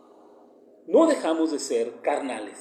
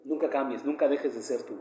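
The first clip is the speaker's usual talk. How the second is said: mother's advice; 4 semitones lower, 5 dB quieter than usual. Retold or imitated. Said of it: "mi mamá me dijo".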